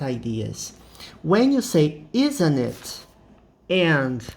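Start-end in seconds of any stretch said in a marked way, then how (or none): 2.1-3.1 "Isn't it?" with the voice going down at the end; falling tone. Shown as a demonstration. Teacher modelling a tag question to the class, falling tone. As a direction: drop the pitch on "Isn't it?" so it's no real question. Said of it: "the sound seems to be going down".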